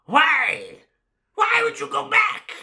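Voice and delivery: high, loud, anguished "why"; exasperated shout. Pretend. Scolding the characters for going back, exasperated shout. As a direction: shout it in hammed-up disbelief.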